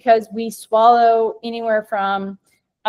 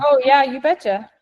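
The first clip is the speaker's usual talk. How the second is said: Midwest accent; 4 semitones higher than usual. Real, not acted. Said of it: "my Midwest accent's coming out".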